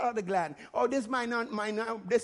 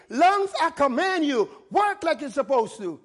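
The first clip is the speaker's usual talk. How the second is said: commanding; 3 dB louder than usual. Shown as a demonstration. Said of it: "command your body to obey".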